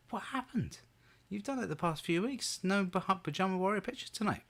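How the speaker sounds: mock appalled. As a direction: plead in feigned disbelief with the missing team. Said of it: "I'm shocked and appalled".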